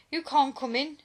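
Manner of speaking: put-on the sentry shrieking at the girls a little late; mild shriek. A narrator's reading. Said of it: "shrieked the sentry".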